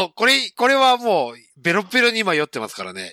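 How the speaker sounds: tipsy slurring. Real, not acted. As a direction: speak like you've had a few.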